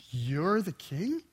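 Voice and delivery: "You're" drawn out slowly, questioning rise on king; stress on YOU. Retold or imitated. Pilate questioning Jesus's kingship, with stress on "You're". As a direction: lean on "You're" in a slow, rising question. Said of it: "The emphasis is on the you".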